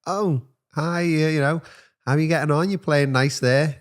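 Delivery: put-on high, gentle coaxing to a child; teacher gently greeting a wild child; sweet teacher voice. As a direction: talk up sweetly to a little boy. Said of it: "was like".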